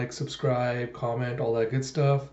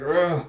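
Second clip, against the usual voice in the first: acted trembling groan, pitched up; strained growl; 4 semitones higher, 4 dB louder than usual. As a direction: groan through building rage. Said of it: "just starting to shake".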